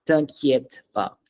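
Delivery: "t'inquiète pas" drawn out slowly with a gap; pronunciation model. Shown as a demonstration. Teacher models phrase slowly for repetition.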